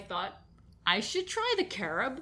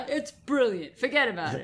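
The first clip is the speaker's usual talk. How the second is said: put-on Brooklyn accent; 2 semitones higher, 4 dB louder than usual. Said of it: "Brooklyn accent".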